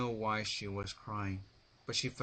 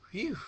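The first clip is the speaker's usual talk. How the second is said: relieved breath; 14 semitones higher than usual. A narrator's reading. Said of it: "Applejack breathed".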